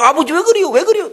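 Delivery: high mock plea; eaglet crying. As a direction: call up to father while flapping. Another eaglet cries to father.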